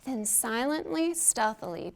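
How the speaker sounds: soft, hushed narration; hushed sneaking. A narrator's reading. Reading to kids, bugs sneaking in: hushed. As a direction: let it creep in quietly.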